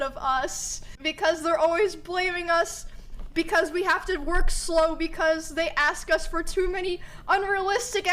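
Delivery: run-on retold grumble; complaining. Mom venting about her manager job, complaining. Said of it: "She was complaining".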